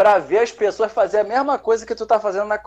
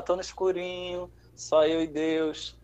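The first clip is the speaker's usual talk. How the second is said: hushed; 9 dB quieter than usual. Retold or imitated. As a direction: murmur it to yourself in the dark. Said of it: "eu vou falar". (sussurrando no escurinho)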